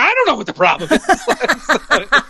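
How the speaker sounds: high-pitched, drawn-out mock despair; mock panic. Flustered actor answering the casting director, mock panic. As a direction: echo it back slowly in a very high, helpless mock wail. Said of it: "And I was like".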